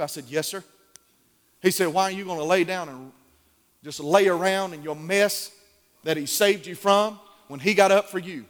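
lightly voiced gruff grandfather, soft; a hint of a low, gruff old man; gentle mock of grandpa's gruff voice; deep gruffy old man. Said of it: "that deep, gruffy voice that he had".

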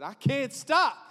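shouted, sharp and high; loud sharp voice. Acted. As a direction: burst out with it loudly. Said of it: "why are you yelling at me, preacher".

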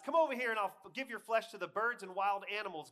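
loud, high, menacing challenge; yell. A narrator's reading. Goliath cursing David before the fight, yelling. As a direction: yell the threat across the battlefield. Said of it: "Goliath yelled".

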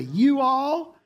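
drawled Deep South "You all" pitched high; mild Southern you all. Retold or imitated. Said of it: "the deep south, they say".

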